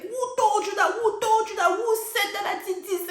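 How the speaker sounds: hammed-up confrontation; imitating a mounting challenge; mock angry demand. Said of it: "And she's like".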